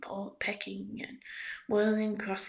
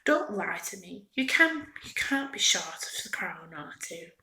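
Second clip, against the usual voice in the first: sharp, louder scolding; angry accusation; 6 dB louder than usual. Acted. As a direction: snap at her, calling her a liar. Toy maker angry at Melina.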